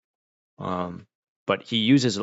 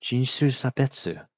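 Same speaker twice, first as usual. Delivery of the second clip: indignant challenge; 3 semitones higher than usual. Pretend. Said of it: "Be like".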